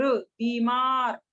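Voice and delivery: बीमार slowly with long bee. Shown as a demonstration. Teacher repeating बीमार with a long ee. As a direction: stretch बीमार for the class. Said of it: "बड़ी ई का sound आ रहा है".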